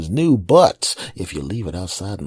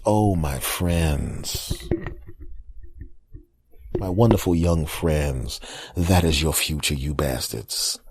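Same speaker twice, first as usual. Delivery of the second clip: mock tender; 3 semitones lower, much slower than usual. Mock tender address to youngsters.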